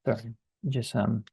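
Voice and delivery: talking between sips of water; drinking water. Real, not acted. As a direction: speak right after a sip of water. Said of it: "drinking some water".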